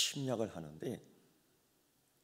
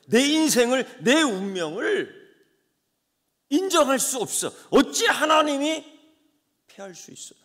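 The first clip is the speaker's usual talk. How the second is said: anguished preaching; 12 semitones higher, 12 dB louder than usual. Acted. Preacher voices Israel's anguished shock.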